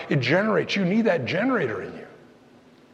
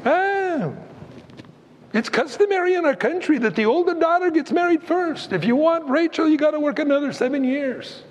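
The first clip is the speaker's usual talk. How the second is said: higher, smug father-in-law patter; sly Laban voice; 8 semitones higher than usual. Retold or imitated. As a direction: sell the swap like a crafty dealer. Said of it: "He goes".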